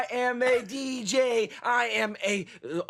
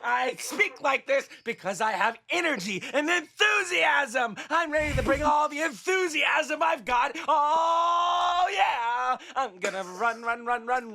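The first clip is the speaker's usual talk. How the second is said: Jerry Lewis screaming; 2 semitones higher than usual. Pretend. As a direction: scream it like a vaudeville clown. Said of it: "so Jerry Lewis just screaming".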